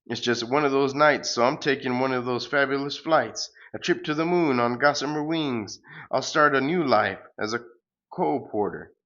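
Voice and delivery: sing-song grand farewell, hammed up; pompous hero. The hero flying off to the moon, light hammed-up hero voice.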